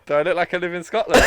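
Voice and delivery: loud, indignant high-pitched outburst; high, forceful rhetorical question; said with chest. Real, not acted. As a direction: shout it from the chest, affronted. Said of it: "You said that with chest".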